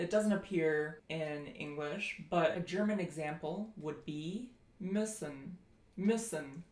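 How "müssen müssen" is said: müssen with a short, lax, lip-rounded i; short rounded vowel. Shown as a demonstration. Teacher giving a German example, short rounded ü in müssen. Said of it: "then you round your lips".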